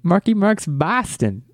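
put-on drawn-out, high-pitched parody of a Boston accent; mock Boston accent. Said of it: "supposed to be a Boston accent".

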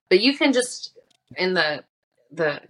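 glitchy robotic connection; choppy robot-y audio; low sample rate. Real, not acted. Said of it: "Your voice is robot-y".

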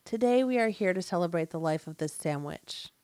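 solemn funeral speech, a touch hammed; mock eulogy. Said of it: "Write a eulogy for a sandwich".

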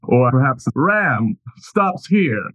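lightly voiced smug nobleman; a hint of a gloating lord; booming villain voice. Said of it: "you hear a booming voice say".

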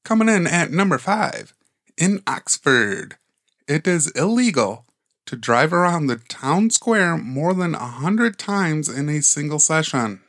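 measured, lightly announced countdown item; a touch of slow announcer delivery. Acted. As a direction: read out the entry deliberately.

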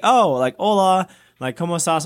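high, bright-eyed hola to the pastor; eager greeting. Retold or imitated. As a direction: greet him eagerly in Spanish, voice up.

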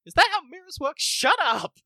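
high, loud jeering yell; mock heckler shout. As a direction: yell it like a fed-up audience member. Heckling the lame magic trick.

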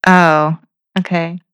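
letdown. Retold or imitated. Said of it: "And they're like".

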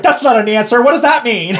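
high, loud, laughing demand for an answer; hammed-up indignant yelling, breaking into a laugh; mock outraged reporters. Reporters shouting at a press conference, mock outraged.

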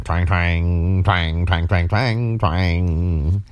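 twang twang. Retold or imitated. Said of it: "playing her hair like it's a guitar string".

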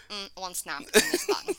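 mock Russian soldier accent; matter-of-fact report in faked Russian accent; Nova, Russian accent. Dog justifying the kill to owner, mock Russian accent. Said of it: "like a fucking Russian soldier".

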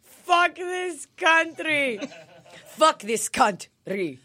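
slow, laughing echo of the curse; laughing mock rant. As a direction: drag it out while cracking up. Echoing Igor's rant, laughing.

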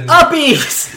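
high-pitched playful yell; excited cry. Acted. Jimmy in his training montage, excited high cry. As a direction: call it out with glee.

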